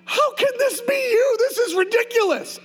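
high, incredulous complaint; exasperated protest. Retold or imitated. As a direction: pitch it way up in disbelief. Protesting to God on floor.

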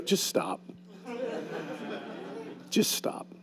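quiet inner voice, whispered; soft whisper. Retold or imitated. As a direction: hush it, barely voiced. Holy Spirit speaking to him.

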